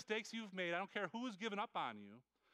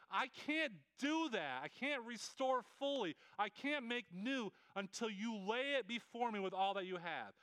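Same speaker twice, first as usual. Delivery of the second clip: patient God; 2 semitones higher than usual. Retold or imitated. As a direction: explain slowly, patiently, as God. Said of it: "God's like".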